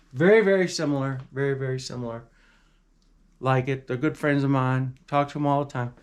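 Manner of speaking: lightly put-on politician impersonation; badly faked presidential boasting, only a hint of the voice; bad Donald Trump. Presenter vouching for his good friends, bad Trump impersonation. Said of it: "That was a really bad, um, Donald Trump impersonation".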